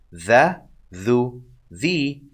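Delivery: plain voiced th in "The, thu, the"; light dhal. Shown as a demonstration. Teacher introduces the dhal to learners, light th sound. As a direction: say "The, thu, the" with a light, non-emphatic th. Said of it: "Check out the dhal".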